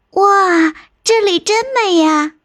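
high-pitched, wowed exclamation; excited. Acted. Little sister seeing the beautiful gorge, excited. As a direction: gush with wonder, voice lifted high. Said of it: "兴奋地说".

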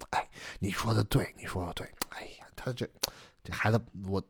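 very soft, low, hesitant agreement; placating husband. Acted. Husband giving in to his wife, soft and placating. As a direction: give in to the wife, nearly under the breath.

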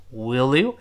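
"Will you" joined as "willyu"; linked pronunciation. Shown as a demonstration. Teacher naming the linking, "Will you" said as one word. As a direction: run "Will" smoothly into "you". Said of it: "连读".

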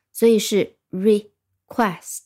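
request说得慢，重音落在quest上; 把request的第二音节quest加重; stress on quest. Shown as a demonstration. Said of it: "重音是在第二音节的". (重读request的第二个音节quest)

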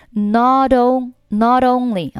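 "not only" with the t softened to a d, joined to only; voiced linking t. Shown as a demonstration. Teacher shows the American linking, t voiced like d. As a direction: link "not only" as no-donly. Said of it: "我们要浊化成类似于的的发音".

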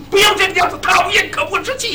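affected dandy voice, swaggering; putting on airs. Retold or imitated. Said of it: "我得装着有派头儿". (装阔少爷的腔调，声音偏高)

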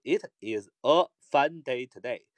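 slow, careful read of the sentence; deliberate unhurried reading. Shown as a demonstration. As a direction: read it slowly, word by word. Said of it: "如果慢点读".

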